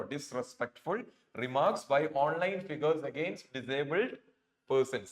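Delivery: slow, careful reading of the text line; slow read-aloud. Shown as a demonstration. Teacher reads the sentence for students, slowly. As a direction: lay each word down slowly for the learners.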